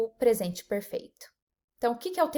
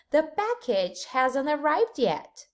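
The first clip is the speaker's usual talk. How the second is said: slow model sentence; 3 semitones higher, much slower than usual. Shown as a demonstration. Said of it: "another example".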